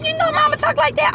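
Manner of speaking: high, drawn-out words; exaggerated drawl. Real, not acted. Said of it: "Why are you talking like that?".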